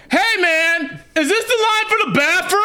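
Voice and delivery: lightly voiced drunk bro. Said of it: "Is this your bro voice".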